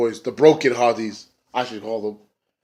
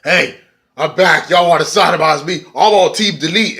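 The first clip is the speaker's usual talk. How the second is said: mock trucker; 5 semitones higher, 4 dB louder than usual. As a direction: ham up a dumb redneck showing up again. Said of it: "he came out like".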